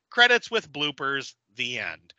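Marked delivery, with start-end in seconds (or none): 1.6-2.1 deadpan whisper, softer. Real, not acted. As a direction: breathe it out as a final sigh. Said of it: "deadpan whispered ending".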